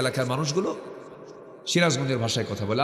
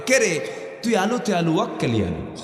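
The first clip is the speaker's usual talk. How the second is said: north Bengal dialect; 3 semitones higher than usual. Retold or imitated. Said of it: "এক লাইনে এক বাক্য বললাম".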